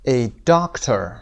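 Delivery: slow "doctor" with DOC stressed; stress on first syllable. Shown as a demonstration. Teacher models "doctor" for students, first syllable stressed. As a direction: stretch "doctor", weight on DOC. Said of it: "قسمت اول".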